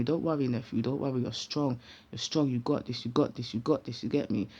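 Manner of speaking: low, soft, repeated encouragement; steady him quietly, phrase by phrase; reassuring pep talk. Retold or imitated. Aunt bolstering distressed nephew before he leaves, quietly reassuring. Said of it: "Giving man his pep talk now".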